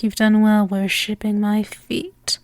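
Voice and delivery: sultry domme ASMR. Acted. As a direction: lull the listener into obeying. Hypnotic domme roleplay.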